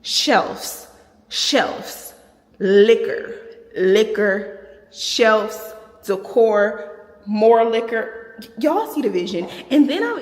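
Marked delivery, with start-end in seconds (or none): 0.0-8.2 picturing the shelves, loud and eager; loud, eager list of shelves and liquor; excited listing. Real, not acted. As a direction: rattle off the dream shelves with glee. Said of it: "just picture this".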